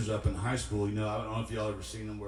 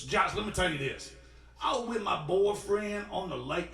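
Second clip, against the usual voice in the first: higher-pitched mock hitchhiker voice; imitating the hitchhiker's talk; 8 semitones higher than usual. Hitchhiker telling Josh why she is wet, in a higher mock voice. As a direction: put on her voice as she tells her tale. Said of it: "and this is how she talked".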